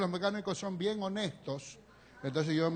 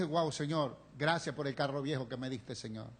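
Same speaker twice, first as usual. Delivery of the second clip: grateful prayer; 5 semitones lower, 4 dB quieter than usual. Retold or imitated. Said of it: "yo dije".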